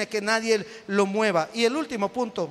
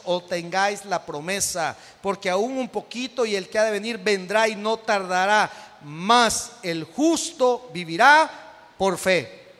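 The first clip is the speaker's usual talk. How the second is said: scripture reading; 3 dB louder than usual. Real, not acted. Lee Hebreos ante la congregación. (lectura bíblica solemne)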